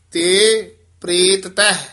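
ਤੇ ਪ੍ਰੇਤ ਤਹਿ with the t of ਪ੍ਰੇਤ and of ਤਹਿ both sounded; both t sounds clear. Shown as a demonstration. Teacher showing students both t sounds. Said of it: "ਕਿਉਂ ਤੱਤੇ ਦੋਵੇਂ ਉਚਾਰਨ ਕਰਨੇ ਹਨ".

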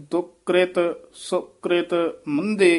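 careful stop after ਮੰਦੇ; pause after phrase. Shown as a demonstration. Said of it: "ਇੱਥੇ ਵਿਸਰਾਮ ਲਾਉਣਾ ਹੈ".

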